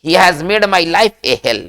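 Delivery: each English word spaced out very slowly; slow dictation. Shown as a demonstration. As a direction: spell it out slowly for the class to repeat. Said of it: "इस चीज को हम कैसे लिखते हैं".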